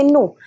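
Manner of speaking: "no" said as French noo, no s; silent final S. Shown as a demonstration. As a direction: end "no" on an open oo, s left silent. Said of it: "we do not pronounce an S".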